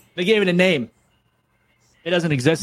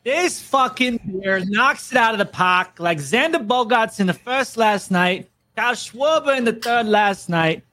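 hammed-up Boston sports-fan pitch; bad Boston accent. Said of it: "worst Boston accent I've ever heard".

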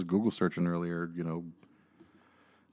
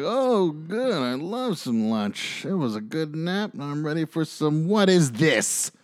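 much higher, stretched-out voice of a just-woken husband; high, slow mock voice turning to a surprised McDonald's; groggy husband; 8 semitones higher, slower than usual. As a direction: play the sleepy man pleased, then puzzled. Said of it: "he's like".

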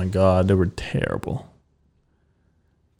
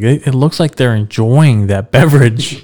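robot voice; 3 semitones higher than usual. Retold or imitated. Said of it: "I was like".

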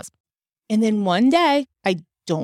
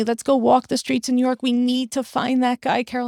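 higher-pitched imitated plea; lightly acted pleading, pitched up; retold begging; 5 semitones higher than usual. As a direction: imitate a friend urging and begging. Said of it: "and she begged me".

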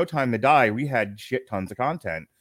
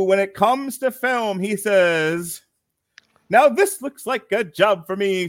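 ringmaster; 8 semitones higher, 4 dB louder than usual. Acted. Announcer intro sung.

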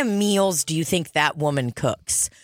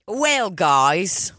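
a lightly voiced Aussie "Well, guys"; rising Australian lilt on "guys"; Australian accent. Imitating the actor's Australian greeting for a friend. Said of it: "That was Australian".

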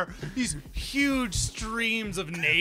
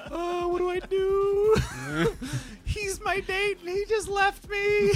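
higher, flustered little voice; nervous teen panic; 12 semitones higher than usual. Acted. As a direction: fret like a shy teenager left alone at the dance. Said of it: "that nervous teenager in the corner".

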